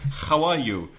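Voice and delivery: how with a rasped H from the throat; Spanish throat H. Shown as a demonstration. Teacher shows the throaty Spanish H on how. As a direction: scrape the H of how from the back of the throat. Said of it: "The typical Spanish H from the throat".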